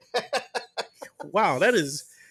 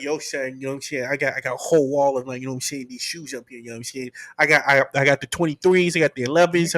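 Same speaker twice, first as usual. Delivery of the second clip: lightly put-on Black American accent, low; imitating friend's voice; 3 semitones lower, faster than usual. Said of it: "put on the black voice".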